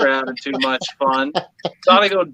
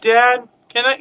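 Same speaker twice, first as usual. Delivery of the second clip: put-on whiny kid; 7 semitones higher, slower than usual. Daughter whining for drink.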